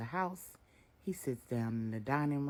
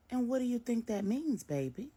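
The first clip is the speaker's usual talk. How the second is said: higher, probing; knowing mother; 11 semitones higher, 4 dB louder than usual. A narrator's reading. Miss Brenda probes her son Marcus, knowing. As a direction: lead him to the answer.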